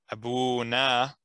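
abuna drawn out slowly; slow careful. Shown as a demonstration. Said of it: "abuna instead of abuna".

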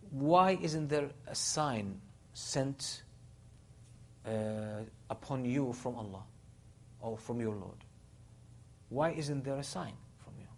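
slow, drawn-out defiant question; mildly defiant quoted demand. Retold or imitated. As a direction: challenge them with a slow, retold demand. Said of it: "say in defiance".

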